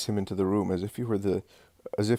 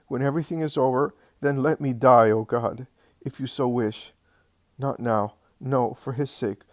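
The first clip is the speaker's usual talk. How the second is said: anguished prayer; 4 semitones higher than usual. Acted.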